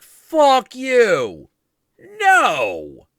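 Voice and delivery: high, loud screamed refusal; furious refusal. Retold or imitated. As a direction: scream him off. Tarkus refusing.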